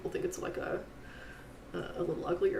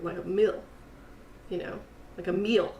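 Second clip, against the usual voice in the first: Oklahoma accent; 3 dB quieter than usual. Shown as a demonstration. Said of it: "Can you do an Oklahoma accent?".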